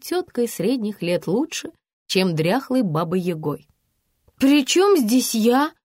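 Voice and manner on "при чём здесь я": slow, higher, louder sulk. A narrator's reading. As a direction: pout and drag it out. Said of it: "надулась Регина". (обиженно надувшись, медленно)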